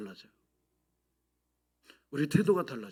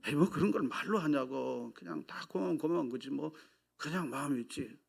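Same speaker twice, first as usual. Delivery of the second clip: gruff Gyeongsang man; 2 semitones lower, 5 dB quieter than usual. Retold or imitated. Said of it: "경상도 사람이 아니잖아요".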